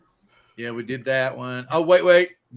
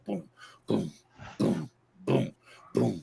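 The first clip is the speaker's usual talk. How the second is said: strutting footsteps; slower than usual. Retold or imitated. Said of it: "he's just strutting up to that fence".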